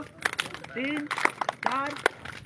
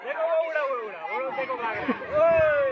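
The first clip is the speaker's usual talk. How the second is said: calling out; 3 semitones higher, 7 dB louder, faster than usual. Pretend. Calling out at fleeing bird.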